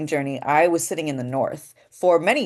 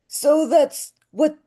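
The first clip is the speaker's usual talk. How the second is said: Jennifer Coolidge voice; 10 semitones higher, 3 dB louder, slower than usual. Shown as a demonstration. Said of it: "That sounds like Jennifer Coolidge".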